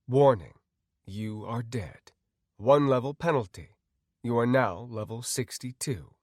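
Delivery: measured, even system notice; game system announcer. Acted. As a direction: announce it like an automated alert.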